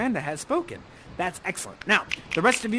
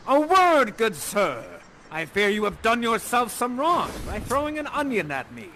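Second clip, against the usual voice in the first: Prospero's stern address; 3 semitones higher than usual. Acted. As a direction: confront him as an affronted Prospero. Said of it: "And he says".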